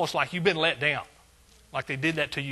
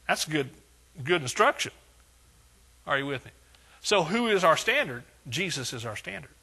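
full-force preaching; 5 dB louder than usual. Acted. Pastor preaching Paul's words to the church, full force. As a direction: thunder the verse to the congregation.

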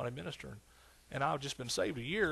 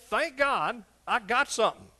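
grateful churchgoer; 9 semitones higher, 9 dB louder, slower than usual. Pretend. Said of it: "But no, I mean".

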